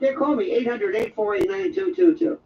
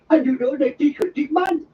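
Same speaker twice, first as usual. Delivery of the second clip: higher, garbled Jamaican imitation; mock Jamaican accent; 4 semitones higher than usual. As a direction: badly imitate a hard-to-follow Jamaican speaker. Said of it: "they're all from Jamaica".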